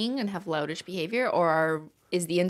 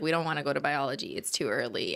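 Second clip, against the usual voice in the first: put-on low mumbling teen; 6 semitones lower, 4 dB quieter, faster than usual. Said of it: "and then we were like".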